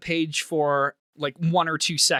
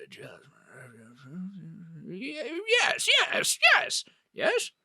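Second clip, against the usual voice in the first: excited yeses; 2 semitones higher, 4 dB quieter than usual. Acted. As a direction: jump way up in pitch on each yes. Wizard excitedly agrees on jasmine.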